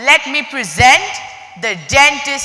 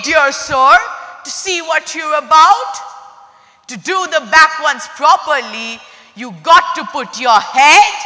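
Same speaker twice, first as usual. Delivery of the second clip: called out. Acted. Crocodile lures the dentist toward his jaws, calling out. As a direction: call across the room, teasing and sly. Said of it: "the crocodile called out".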